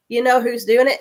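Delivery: mother's mock final words to her daughter; playful dying mother. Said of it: "whispering something".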